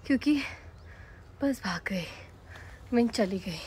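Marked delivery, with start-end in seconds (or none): 0.1-2.1 breathless, defeated whisper; disappointed whisper. Real, not acted. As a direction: let it out under your breath, crushed. The bus left without her. (निराश होकर फुसफुसाना)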